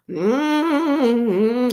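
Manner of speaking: sustained closed-mouth humming; long hum. Shown as a demonstration. Showing viewers what she does when trying hummus, long hum. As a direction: hum one long, drawn-out mmm.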